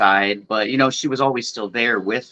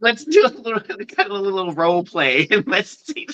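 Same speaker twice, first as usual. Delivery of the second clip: higher, teasing; playful role play voice; 8 semitones higher than usual. Retold or imitated. Co-host voicing the movie scene, teasing higher. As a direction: tease it lightly. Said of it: "It's like".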